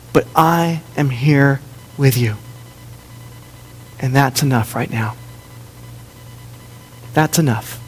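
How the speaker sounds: low, tender, unhurried comfort; quiet, steady promise of care; gentle reassurance. Retold or imitated. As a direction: speak softly as a father calming a child. Voices God reassuring those waiting.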